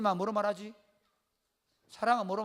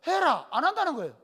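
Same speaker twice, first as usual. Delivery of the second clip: raised, louder command; retold insistent order; 7 semitones higher, 6 dB louder than usual. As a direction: repeat the order, higher and louder. Repeats order after wife's refusal.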